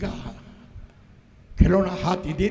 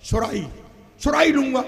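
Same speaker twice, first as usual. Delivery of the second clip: put-on whiny child demand; 5 semitones higher, 6 dB louder than usual. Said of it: "child demands a surahi".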